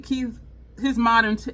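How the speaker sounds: ordinary delivery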